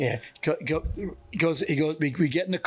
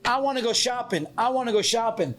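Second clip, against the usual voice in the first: put-on whiny girl; 7 semitones higher than usual. Girl in green dress whining.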